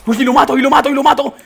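loud, high, excited yelling; high-pitched, full-volume gamer excitement; triumphant shout. Real, not acted. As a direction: shout it out in fighting frenzy. Exulting during a fight in game.

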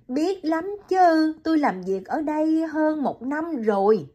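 Liễu explains the doctor's hardship to Hiền, high and gentle; young woman, sympathetic. Acted.

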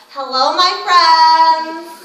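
demonstrative Jewish accent. Shown as a demonstration. Voice practice tip, in a Jewish accent. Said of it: "Jewish accents really help".

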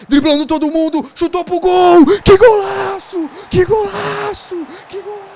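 high, loud, stretched goal call; explosive goal commentary. Pretend. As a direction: scream it like a TV commentator. Scoring a goal, narrating it.

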